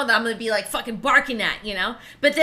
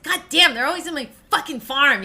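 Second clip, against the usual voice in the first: mildly exasperated grumble, a little raised; annoyed farmer; 3 semitones higher than usual. Retold or imitated. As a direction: imitate a fed-up farmer. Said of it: "he's all annoyed with them".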